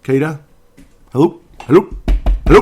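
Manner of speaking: exasperated calling out. Acted. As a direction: shout hello as if nobody's listening. Mock calling out to player.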